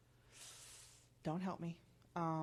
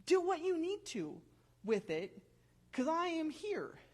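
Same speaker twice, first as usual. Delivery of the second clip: voicing God; 8 semitones higher than usual. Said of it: "God tells us specifically".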